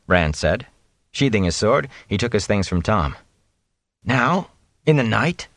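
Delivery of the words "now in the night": higher, incredulous questions; startled disbelief; surprised protest. A narrator's reading. A youth protesting a night departure, incredulous.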